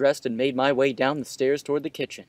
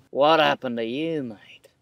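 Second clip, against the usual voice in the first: Murdoch impression. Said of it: "Murdoch and Russell impression".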